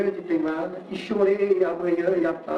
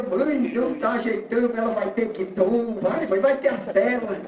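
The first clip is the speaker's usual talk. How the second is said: higher-pitched, lightly acted eager boy; excited child; 4 semitones higher than usual. Boy imagining his bicycle with his mother, mildly excited. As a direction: pester mum with lifted, hopeful pitch.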